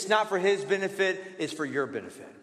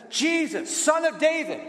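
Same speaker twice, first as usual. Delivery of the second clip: higher pleading call to Jesus; 4 semitones higher than usual. Retold or imitated. Blind man calling to Jesus, mild raised plea. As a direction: cry out for mercy, higher. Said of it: "Bartimaeus just starts shouting out".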